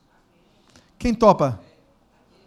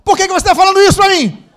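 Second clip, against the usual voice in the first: much higher and louder put-on voice, offended; indignant neighbour; 11 semitones higher, 14 dB louder, faster than usual. Neighbour protests to the preacher, indignant loud retort. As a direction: play the neighbour taking offence. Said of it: "a pessoa do lado vai responder assim".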